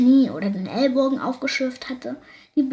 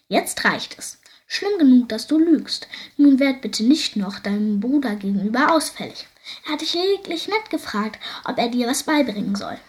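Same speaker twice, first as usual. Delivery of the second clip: louder, firm fatherly telling-off; stern scolding; 3 dB louder than usual. Acted. Father scolds daughter for lying, raised stern voice. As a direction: lay down the law, voice raised. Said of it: "wies sie ihr Vater zurecht".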